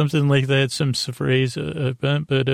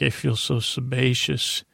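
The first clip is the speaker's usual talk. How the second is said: mock sickbed moan; 4 dB quieter than usual. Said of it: "Feel like".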